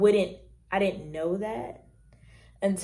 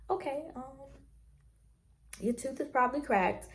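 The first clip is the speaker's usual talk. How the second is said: dentist voice; 7 semitones higher, 5 dB quieter than usual. Retold or imitated. Dentist voiced in retold story.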